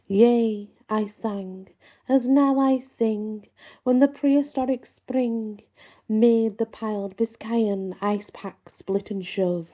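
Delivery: slow, lilting verse recital; poem recitation. Acted. Host reciting a troll-and-gnome poem from the book, slow and lilting. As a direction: let the old verse roll out slowly.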